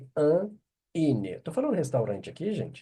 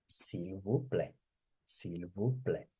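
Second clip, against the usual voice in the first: soft polite please; 7 semitones lower, 9 dB quieter than usual. Shown as a demonstration. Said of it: "teacher models polite ending".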